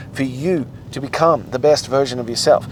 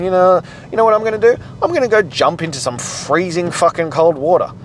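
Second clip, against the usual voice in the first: sarcastic mock enthusiasm; 6 semitones higher, 4 dB louder than usual. Mocking own morning self.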